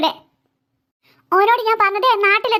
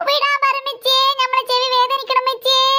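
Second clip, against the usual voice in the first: fake crying. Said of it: "ഓന്റെ ഒരു കള്ള കരച്ചില്".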